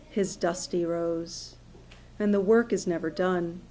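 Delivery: measured poetic recital; poetry reading. Acted. Poet reads a scarecrow poem to an audience, measured recital. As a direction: read it as verse, line by line.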